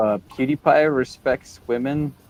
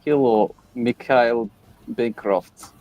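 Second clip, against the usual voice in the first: light mock Russian accent, slow on the name; a hint of Russian accent. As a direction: drag out Mikhail in a put-on Russian accent. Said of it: "how I, how I do this?".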